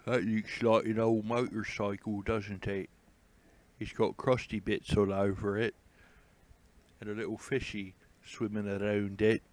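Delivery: lightly put-on cooing voice, doting on a motorcycle. Vlogger coos at an old sunken motorcycle in a light put-on voice. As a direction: coo over it in a playful affected voice. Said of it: "I like talking like that".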